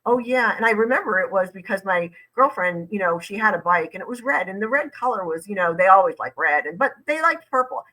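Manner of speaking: imitating someone babbling off topic; mock evasive chatter; mock rambling. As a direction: ramble on with lilting, wandering asides. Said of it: "they start talking about, ... it goes crazy".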